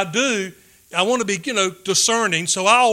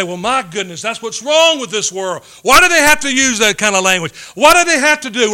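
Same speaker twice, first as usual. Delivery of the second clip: mock indignation; 3 semitones higher, 5 dB louder than usual. Preacher mimicking congregants scandalised by movie language, mock outrage. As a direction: play the shocked, self-righteous believer. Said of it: "Now we say".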